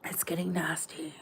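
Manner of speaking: whispered, breathy hush. Shown as a demonstration. Host whispering the warning to her viewers. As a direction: let it fall to a whisper. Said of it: "repeats the line three ways".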